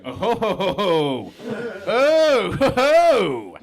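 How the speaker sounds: loud, hammed-up knowing "oh ho ho"; mock-impressed clerk banter; teasing clerk. Clerks teasing a condom buyer.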